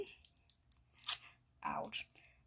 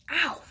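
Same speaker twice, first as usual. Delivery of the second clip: pained ow; 5 semitones higher than usual. Real, not acted. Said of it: "I cracked my finger very hard".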